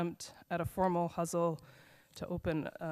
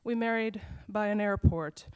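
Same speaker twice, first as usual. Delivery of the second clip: measured, rhythmic poetry reading voice; slow, deliberate recital with pauses between lines; poem reading; slower than usual. Acted. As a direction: read it like a poem to an audience, line by line. Reads her poem aloud.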